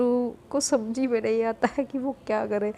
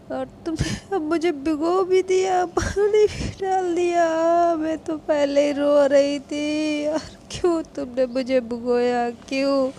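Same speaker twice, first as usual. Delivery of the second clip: louder tipsy whining; drunk whiny complaint; 2 semitones higher, 4 dB louder than usual. Acted. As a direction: complain like a soaked drunk girl.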